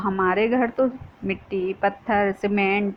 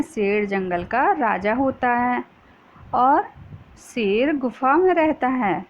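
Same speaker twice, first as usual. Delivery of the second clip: dictating slowly; slower than usual. Shown as a demonstration. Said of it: "तो दो वाक्य हो गए".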